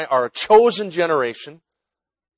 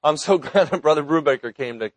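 laughing through the words; can't hold back a chuckle. Real, not acted. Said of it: "I can't say it without laughing".

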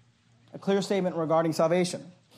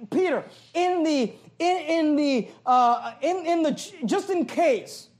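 higher, halting mock hesitation; sarcastic; 6 semitones higher, slower than usual. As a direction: pretend to grope for a delicate way to put it. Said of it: "being spoken sarcastically".

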